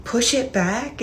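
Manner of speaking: puzzled echo of an odd request; confused question. Retold or imitated. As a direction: Push rising into a puzzled question on back. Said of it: "And he was like, "Push it back".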